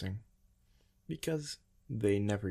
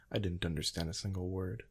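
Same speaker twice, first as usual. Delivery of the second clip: ordinary delivery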